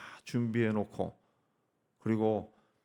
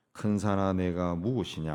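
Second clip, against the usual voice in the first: raised, declaiming challenge; demonstrated cry; 3 dB louder than usual. Shown as a demonstration. Preacher showing believers how to cry out to their mountain, mildly raised cry. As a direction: call it out firmly to the mountain. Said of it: "하고 소리 질러야죠".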